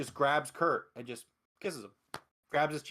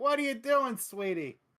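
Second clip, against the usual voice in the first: put-on, acted, high-pitched yell; 9 semitones higher than usual. Joking about a mother calling down from upstairs: imitating mom yelling. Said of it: "His mom yells down from the".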